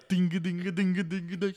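high sung drum dings; high chanted ding beats; mock drum beats. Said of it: "With the drums".

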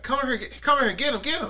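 high, panicky imitated cries; grandmother screaming. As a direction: mimic a grandmother frantically calling for help. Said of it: "she just starts screaming".

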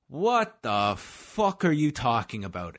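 put-on slow, drawn-out English fighter accent; Michael Bisping. Fighter cutting off rival at press conference, imitated English accent. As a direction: cut in with an incredulous English accent. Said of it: "it's in Michael Bisping's accent".

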